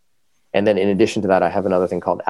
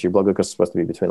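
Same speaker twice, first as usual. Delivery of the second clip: normal talking voice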